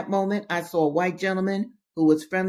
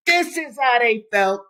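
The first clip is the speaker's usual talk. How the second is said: loud, high, impassioned interjection; emphatic aside; 6 semitones higher, 6 dB louder than usual. Real, not acted. Reader telling listeners how they felt, emphatic. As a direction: break out of the reading and drive the point home. Reader breaks off to stress point.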